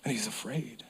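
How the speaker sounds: breathy hushed whisper, barely there. Acted. Preacher to congregation, whispering. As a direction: drop to a secret whisper. Preacher describes a frightened man.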